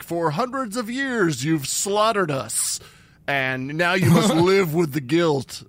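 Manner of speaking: slow, grave vengeful sea creature; ominous accusing voice. Retold or imitated. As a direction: intone it like an ancient judgment.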